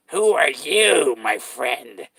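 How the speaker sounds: slow, drawn-out clown greeting; creepy clown asking who you are. Acted. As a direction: stretch each word like a creepy clown. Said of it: "I'm a clown".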